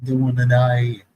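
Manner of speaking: put-on Southern accent. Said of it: "come back like".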